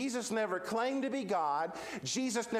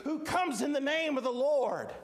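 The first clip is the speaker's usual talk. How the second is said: raised, high-pitched acclamation; mild crowd shout; 6 semitones higher than usual. Acted. Crowd hailing the king, mildly shouted acclamation. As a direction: proclaim it high like a cheering crowd. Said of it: "The crowd begins to shout".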